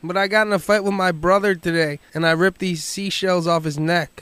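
a hint of a muddled Bob; Bob on prank call. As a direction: pester the secretary as Bob.

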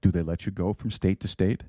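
put-on mild, amateur Russian accent; a loose attempt at a Russian accent; poor Russian accent. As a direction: play a film submariner with a slight Russian accent. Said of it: "Not a very good Russian accent".

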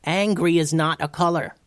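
high-pitched, half-yelled correction; exasperated yell. A narrator's reading. Tubes correcting Pierce, mildly yelled in exasperation. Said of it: "yelled Tubes".

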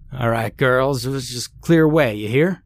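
lightly voiced farmer coaxing cows; a hint of a folksy farmer calling out; announcing farmer. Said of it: "Farmer Sanders announced".

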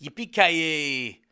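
very slow, drawn-out villain dub; Hans's dubbed line. Retold or imitated. Retelling the villain's dubbed line, very slow. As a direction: stretch every syllable like a bad villain. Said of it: "Hans goes".

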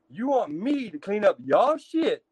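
"me" and "y'all" punched, slow and incredulous; indignant emphasis. Retold or imitated. Inmate speaking his piece to the tank, indignant stress on "me" and "y'all". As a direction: lean hard on "me" and "y'all", drawing the line out.

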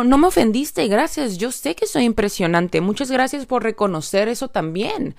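light mock-diva reply; confident thanks. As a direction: own the compliment playfully. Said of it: "Y yo".

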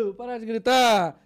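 loud, slow scolding yell; mock annoyed shout. Old woman on the plane scolding him, loud shout. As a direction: snap at the noisy passenger. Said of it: "E a mulher".

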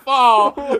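high, loud, helpless laughter; real laughing protest. Real, not acted. Host telling friend to stop mooning everyone, laughing protest. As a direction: cry out high through laughter.

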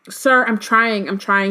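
slow, pleading and strained; desperate. Acted. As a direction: beg him to hold on. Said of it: "he said desperately".

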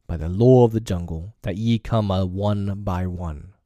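proud aging pack leader speaking to the council; a lightly voiced old wolf chief making his stand. Akela addresses the wolf pack.

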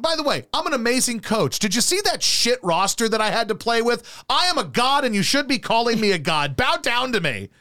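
pompous self-glorifying coach, mock; megalomaniac rant. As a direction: bellow your greatness, hammed-up. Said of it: "you're like".

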